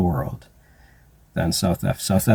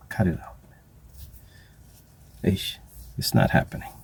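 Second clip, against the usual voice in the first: nephews' slang. Retold or imitated. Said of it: "That's what my nephews in South Africa would say".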